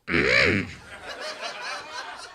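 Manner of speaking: high raspy throat-clear as a soul singer; a long high rasp of agreement; a singer agreeing. Acted. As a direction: clear your throat like a raspy soul singer. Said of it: "That's Macy Gray agreeing with you".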